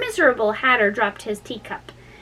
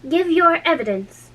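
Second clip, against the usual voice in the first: raised, angry king; 8 semitones higher than usual. A narrator's reading. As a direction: bark it at the witness. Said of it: "the King repeated angrily".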